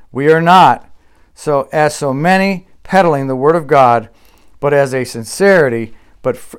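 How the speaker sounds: measured, deliberate Bible reading; scripture reading. Acted. Pastor reads Paul's words in closing, solemn scripture reading. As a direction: read the verses with weight.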